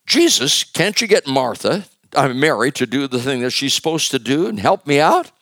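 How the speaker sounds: high, loud whiny plea; exasperated complaint. Retold or imitated. Martha complaining to Jesus about Mary, exasperated and high. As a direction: nag Jesus like a put-upon sister.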